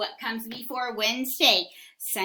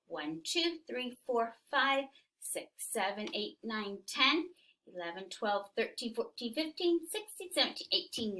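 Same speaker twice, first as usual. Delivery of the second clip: soft counting; 6 dB quieter than usual. Shown as a demonstration. Quiet counting with class.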